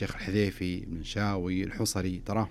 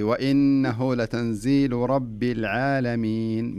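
very slow, each word of "وإنه لتنزيل" drawn out; slow model reading; 3 dB louder, much slower than usual. Shown as a demonstration. Sheikh modelling a slower recitation for the caller, very slow. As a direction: read it unhurried so she can follow. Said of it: "ارجعي، ارجعي".

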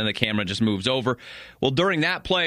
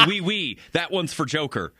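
mock French accent, lightly done; jokey French take on the line; a playful French accent, a bit higher; 4 semitones higher than usual. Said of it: "French kind of thing".

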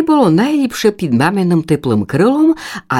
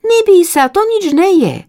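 encouraging chick; 13 semitones higher, 3 dB louder than usual. Acted. Sister encourages from below.

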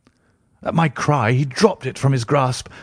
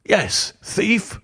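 restrained roar; 7 semitones higher than usual. A narrator's reading. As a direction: throw the accusation back with contained fury. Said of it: "I roared".

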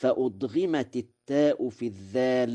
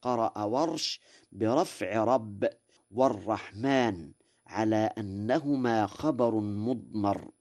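ordinary talk

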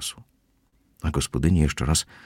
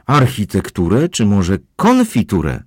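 louder and higher, slowed and sneering; mocking shout; 5 semitones higher, 6 dB louder than usual. A narrator's reading. Housekeeper shouts mockingly at Kozłowski, higher and louder. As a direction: shout it back as a jibe. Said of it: "krzyknęła gospodyni".

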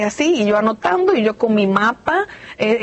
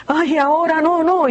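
higher whiny "not now" protest; mock reluctance; 7 semitones higher than usual. Someone refusing death, mock high whine. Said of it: "No es que allá vamos a llegar a".

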